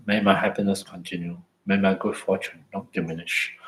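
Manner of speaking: slow mantra. Shown as a demonstration. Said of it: "I just say it very slowly".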